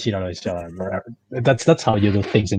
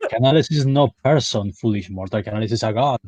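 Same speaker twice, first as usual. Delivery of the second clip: booming mock dark lord; hammy villain declaring godhood. God persona mocking host.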